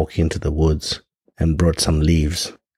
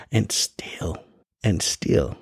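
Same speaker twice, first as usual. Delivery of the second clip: whisper; 5 dB quieter, much slower than usual. Real, not acted. Dramatic pause before key point.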